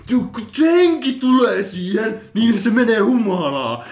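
high, slow, drawn-out mock voice; hammed-up ridicule, pitched well up; mocking imitation. Mocking ghost hunters' retold words.

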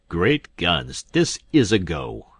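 loud exclamation of dismay; dismayed outburst. Acted. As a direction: blurt it out, caught off guard. King dismayed by the news.

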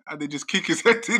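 loud, high, breaking into laughter; helpless laughing. Real, not acted. Telling friends about a film beating, laughing helplessly. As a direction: laugh bursting through the words. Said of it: "I don't even know why I'm laughing".

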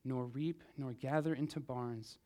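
measured, reverent Bible reading; scripture reading. Acted. Reads scripture aloud in church.

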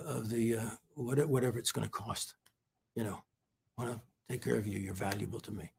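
very soft and low, holding back tears; halting and choked up, sinking almost to nothing; real, tearful. Real, not acted. Retelling his offer to pay her costs, real tearful softness. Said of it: "go through this story without crying".

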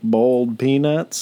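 mock Southern drawl; imitated Southern accent. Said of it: "could not understand the Southern accent".

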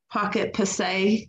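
"Passe" said slowly with a fancy French twang. Real, not acted. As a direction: draw out "Pocket Passe" in a classy accent. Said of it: "Little twang out of there".

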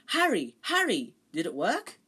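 high, loud eager call across the corridor; a friendly ghost calling down the corridor to Harry. Acted. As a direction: hail him from a distance, excited.

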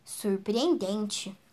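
amazed. Acted. Gruffalo amazed as the owl flees, awed. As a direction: breathe the word in wonder. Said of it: "falou espantado".

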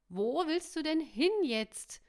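high, loud, drawn-out shout; calling after. A narrator's reading. M calls after Caro as she leaves, shouting. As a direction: shout after someone running off. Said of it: "rief M ihr nach".

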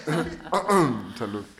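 slow tipsy talk; tipsy, admitting it. Real, not acted. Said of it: "Estoy pedo".

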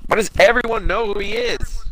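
heated. Real, not acted. Fan venting to buddy about secret identity, heated. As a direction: demand an answer, genuinely exasperated. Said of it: "I'm getting fucking, like, heated".

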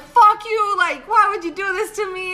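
loud, high retold outburst; going off on him. Telling off her date after he drops her home, loud angry outburst. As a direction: tell him off at full volume. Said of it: "I went off on him".

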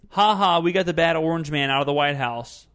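mock gloating. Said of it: "They care about".

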